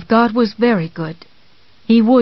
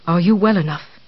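kindly; 2 semitones lower than usual. Acted. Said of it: "more kindly".

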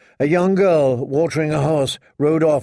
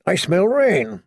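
higher-pitched knightly character voice; knight sniffing the wind; 5 semitones higher than usual. A narrator's reading. Knight to fellow travellers about the weather, high voice. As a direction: pitch it up, swooping on the last word.

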